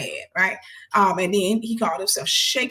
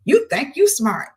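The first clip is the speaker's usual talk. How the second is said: mocking taunt; 5 semitones higher, 6 dB louder, slower than usual. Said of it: "he was like".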